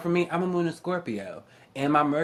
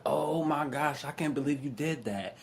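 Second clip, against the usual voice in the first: hushed shock; 6 dB quieter than usual. Retold or imitated. Scandalized coworker reacting to a petty theft, hushed. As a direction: drop the volume and stretch the gasped words.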